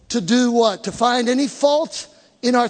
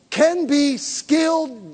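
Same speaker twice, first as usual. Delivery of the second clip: normal talking voice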